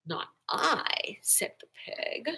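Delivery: unvoiced whisper. A narrator's reading. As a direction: breathe it in a whisper.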